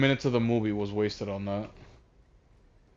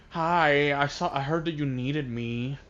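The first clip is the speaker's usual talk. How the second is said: lightly voiced henchman, softer; General Chungus; 3 semitones higher, 3 dB quieter than usual. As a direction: report for duty in a lightly put-on voice. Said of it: "that's the exact voice he had".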